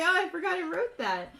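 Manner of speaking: real laughter rising high and loud; laughing at oneself. Real, not acted. Game master apologising for own notes, laughing. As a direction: laugh your way through the apology. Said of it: "I'm just laughing at my own stuff".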